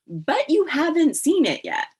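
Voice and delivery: high, loud objection; retold protest. Poet protesting to an over-eager editor, retold protest.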